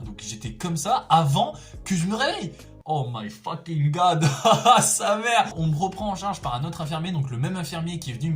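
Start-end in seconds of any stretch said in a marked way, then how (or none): 2.9-5.5 shocked exclamation. Real, not acted. Waking up shocked, laughing.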